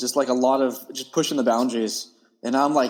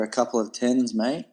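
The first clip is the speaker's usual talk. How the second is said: lightly put-on Australian accent; Aussie accent. Telling host about a call from a buddy, light Aussie accent. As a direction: slip into a slight Aussie twang, rising on "mate". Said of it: "Was that an Aussie accent?".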